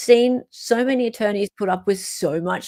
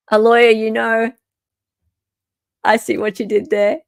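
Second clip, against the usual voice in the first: put-on light touch of Valley Girl, slightly louder; 3 semitones higher, 3 dB louder than usual. Reading a chat comment about a lawyer, lightly Valley Girl. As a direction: toss it off with a hint of Valley Girl. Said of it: "that was a Valley Girl".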